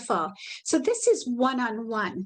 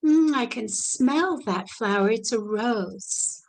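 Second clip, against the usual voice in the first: gentle demo; slower than usual. Shown as a demonstration. Caregiver spritzing rose water for a resident, gentle slow savoring. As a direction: breathe in the scent with them, unhurried. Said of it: "gently spray and say".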